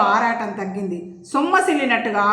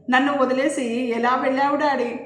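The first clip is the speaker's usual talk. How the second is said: a touch of weeping, grief-stricken; mild crying lament; 2 semitones higher than usual. Acted. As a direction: mourn over her father's body. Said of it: "Preethi ఏడుపుతో".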